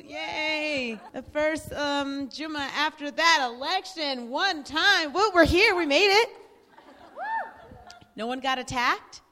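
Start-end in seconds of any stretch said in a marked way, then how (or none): 5.1-6.3 loud, high, joyful cheer; excited cheer. Real, not acted. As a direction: celebrate making it here. Celebrating first Jummah after election.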